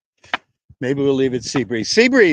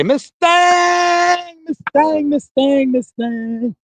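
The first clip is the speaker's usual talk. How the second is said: calling out; 13 semitones higher, much slower than usual. Real, not acted. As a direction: call the horse across the field. Calling out to a horse.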